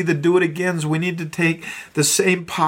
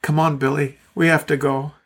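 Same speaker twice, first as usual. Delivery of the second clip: gently. Retold or imitated. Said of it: "said gently".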